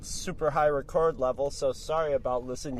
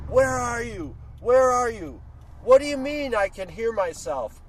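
higher, half-hammed yelling into a phone; imitating yelling woman; 7 semitones higher, 4 dB louder than usual. Woman on her cell yelling at her boyfriend, higher mock yell. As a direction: demand where he is, mock angry. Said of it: "she's just like".

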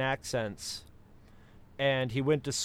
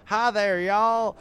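higher, louder hammed-up Southern drawl, slow on the last words; mock Southern accent; 7 semitones higher, 6 dB louder, much slower than usual. A speaker mimicking a Southern switch mid-sentence in a hammed-up drawl. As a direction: ham up a friendly Southern greeting. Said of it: "switching from".

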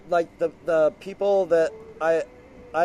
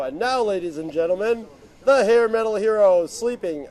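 mock announcer; 2 semitones higher, 5 dB louder than usual. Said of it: "put it on a podcast and go".

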